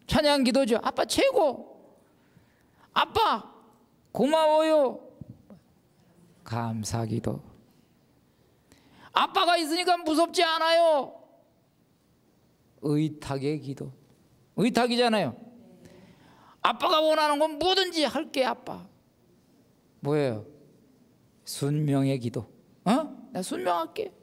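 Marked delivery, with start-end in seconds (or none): 0.8-5.0 put-on high, slow, happy little kid thanking daddy; child's voice. 9.1-11.1 put-on high little child, safe with daddy; a small kid who feels safe; child's voice. Child's trust prayer. 16.6-18.9 put-on child's voice. Child's obedience prayer. 22.8-24.1 put-on a small kid agreeing; child's voice. Child's obedience prayer.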